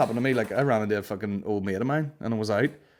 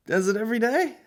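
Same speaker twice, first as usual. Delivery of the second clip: high, loud, excited Belfast bloke voice; mocking the bar guy; 12 semitones higher, 3 dB louder than usual. Comedian mimics a rude bar guy recognising him, high and loud. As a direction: ham up a nosy punter spotting a comic. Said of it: "this guy's like".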